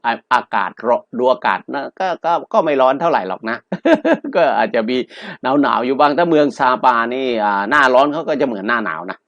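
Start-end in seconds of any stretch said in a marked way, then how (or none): 3.6-4.3 short high chuckle; brief amused laugh; light chuckle. Real, not acted. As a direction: laugh lightly at your own aside. Joking about the weather.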